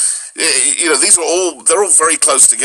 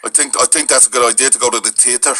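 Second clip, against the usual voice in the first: lilting Irish, theatre as teater; Irish accent. Shown as a demonstration. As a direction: harden every th as the Irish do. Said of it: "the Irish, they do that too".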